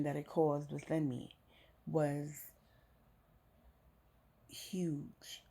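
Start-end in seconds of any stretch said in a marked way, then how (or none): 4.5-5.4 whispered. Real, not acted. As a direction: breathe the word out unvoiced. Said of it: "devastation huge".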